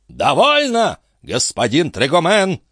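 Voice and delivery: high, stern rebuke; the captain angrily silences his friend; menacing shout. A narrator's reading. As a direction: cut him off with a threat. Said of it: "грозно закричал дядюшка Антифер".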